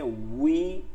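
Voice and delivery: "উই" starting with tightly rounded lips; a drawn-out w glide into "উই". Shown as a demonstration. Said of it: "গোল করে বলতে হবে". (ঠোঁট গোল করে "উই")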